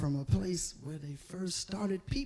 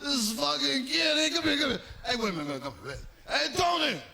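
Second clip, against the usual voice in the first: amused mafia boss; 4 semitones higher, faster than usual. Acted. Mafia boss laughing at kid.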